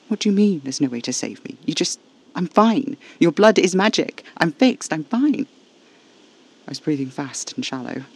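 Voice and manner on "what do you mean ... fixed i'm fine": loud, high-pitched frantic protest; rising alarm, pushed hard; panicked denial. A narrator's reading. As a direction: insist desperately, voice jumping up. Dying narrator frantically denies the news.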